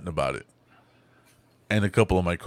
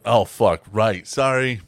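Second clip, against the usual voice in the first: sudden louder realization, mock flustered; flustered apology; 3 semitones higher, 7 dB louder, slower than usual. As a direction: blurt out a retold apology. Retold flustered apology to startled coworkers.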